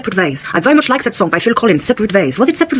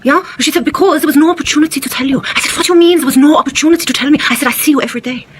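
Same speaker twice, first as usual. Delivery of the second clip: put-on German accent, higher in the quotes; 5 semitones higher than usual. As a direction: retell an argument in a German accent. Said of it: "Why is your accent changing from German to French?".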